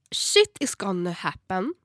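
slow whisper; whispered aside. Pretend. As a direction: whisper it like a dark prophecy. Half-joking ominous aside.

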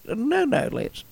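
high, soft attempt at the wife's French accent. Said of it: "I can't do her accent".

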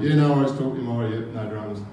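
quick, clipped-off brush-off while locking up; hurried goodbye. Retold or imitated. Locking the door on the man, a fast nervous brush-off. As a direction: rush the words out to get rid of him. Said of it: "And I'm like".

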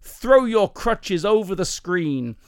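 slow, high American faith healer; drawn-out American preacher's proclamation; slight American accent. Acted. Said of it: "that's a slight American accent".

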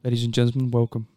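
hammed-up lounge announcer; mock radio host. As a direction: introduce the next song like a late-night jazz DJ. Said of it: "how close is this to being smooth jazz".

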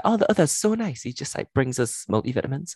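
lightly voiced, high and starry-eyed; a hint of a gushing innocent; naive admiring voice. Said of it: "he's always like".

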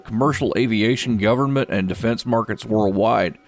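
upbeat business news read; brisk announcer reading stock picks; radio market report. Acted.

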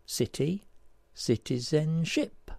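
"citizenship" drawn out slowly; syllable by syllable. Shown as a demonstration. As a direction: spell out the sounds of "citizenship" slowly. Puzzle answer built from syllables.

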